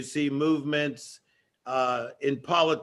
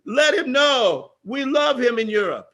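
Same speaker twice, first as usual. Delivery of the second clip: imitated fan voice; 8 semitones higher, 4 dB louder than usual. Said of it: "He goes".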